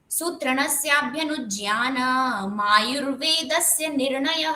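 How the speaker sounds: measured Sanskrit chant; metered shloka recitation. Shown as a demonstration. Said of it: "यहाँ पे भी आठ वर्ण पूरे हो जाएंगे".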